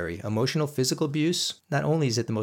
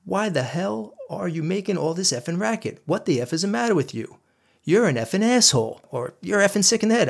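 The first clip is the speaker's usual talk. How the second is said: much higher, frantic yelling; husband screaming at his wife, furious yell; retold screaming; 9 semitones higher than usual. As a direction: scream it like you've lost it. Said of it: "I started yelling something like".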